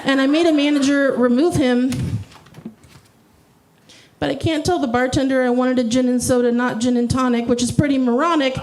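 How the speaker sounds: fast rhyming run with held final word; mock-earnest spoken-word recital; parody slam poetry. Shown as a demonstration. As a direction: rattle the rhymes, pause before the last word. Performs parody poem.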